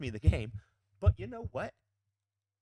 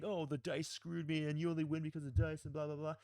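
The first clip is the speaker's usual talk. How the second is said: mock moaning; 3 semitones higher than usual. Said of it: "crying and moaning and saying".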